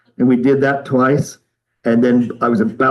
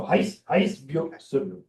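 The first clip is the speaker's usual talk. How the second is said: a soft, half-voiced run-through of the calls; quiet walk-through; 10 dB quieter, slower than usual. Shown as a demonstration. Teacher quietly previewing the chant before the class tries it. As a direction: murmur the sequence to show the order. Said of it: "let's try it".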